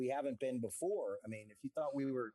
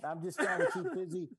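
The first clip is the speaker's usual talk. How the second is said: ordinary talk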